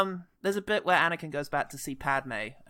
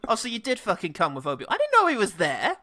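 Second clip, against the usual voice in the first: rising, louder fake astonishment; mock surprise; 4 semitones higher, 4 dB louder than usual. Anakin to Padme on seeing Obi-Wan, mock surprised. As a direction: act shocked that he came along.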